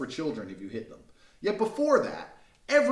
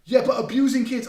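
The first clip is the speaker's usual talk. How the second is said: high, loud whiny mock of the woman; mocking her objection; 8 semitones higher, 10 dB louder than usual. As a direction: parrot her back in a silly high voice. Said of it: "sits there and goes".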